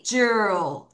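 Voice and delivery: "jewel" said slowly as one drawn-out syllable, jer; sounding out "jewel" as jer, the word's second half; syllable demo. Shown as a demonstration. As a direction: stretch "jewel" into a slow "jer" for the class. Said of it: "S S O R 이".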